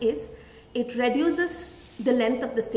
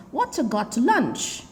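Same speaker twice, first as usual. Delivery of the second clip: slow, clipped casual form; casual contraction; slower than usual. Shown as a demonstration. Teacher showing children the short casual question. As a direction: drop the words, say it casually.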